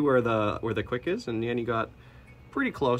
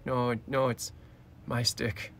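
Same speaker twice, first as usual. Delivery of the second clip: growly tiny tyrant voice; cat villain voice; 5 semitones higher, slower than usual. Pretend. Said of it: "She's like".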